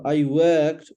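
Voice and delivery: WORKED with the vowel stretched; drawn-out middle in WORKED; long vowel. Shown as a demonstration. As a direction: slowly model "worked", holding its vowel. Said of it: "it's a long one".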